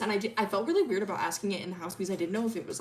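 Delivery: rushed run-on explanation; frantic rambling. Retold or imitated. Milo explaining the question to Ellie, rambling fast. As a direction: spill it out fast without a break. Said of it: "he's, he's going crazy".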